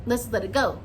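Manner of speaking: lightly voiced mom calming him down; a hint of a mother cutting off a rant; imitating the mom. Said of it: "She does this, like".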